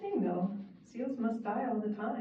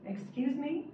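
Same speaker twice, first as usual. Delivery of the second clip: louder voice; 8 semitones higher than usual. A narrator's reading. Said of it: "said a louder voice".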